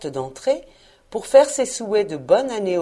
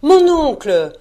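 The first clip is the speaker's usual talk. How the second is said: higher, louder call to an uncle; interpellation enjouée; 7 semitones higher, 9 dB louder, slower than usual. A narrator's reading. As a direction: call out to your uncle, pitched up. Neveu s'adresse à son oncle. (interpellation enjouée, plus aiguë)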